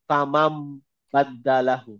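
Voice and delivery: slow "ফা মাম বাদ্দালাহু", noon read as a held meem; iqlab recitation. Shown as a demonstration. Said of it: "আমরা direct এভাবে পড়ি". ("ফা মাম বাদ্দালাহু", নুনের বদলে মিম দিয়ে টেনে পড়া)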